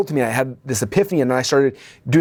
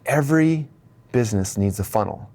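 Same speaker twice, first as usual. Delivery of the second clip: dawning realization. Retold or imitated. Acting out Marcus's dawning epiphany.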